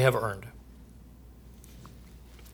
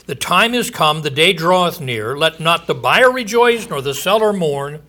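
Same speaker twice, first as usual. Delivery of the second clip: raised, ringing proclamation of doom; scripture reading. Acted. Preacher proclaiming judgment to his listeners, booming. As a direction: preach the verse out to the congregation.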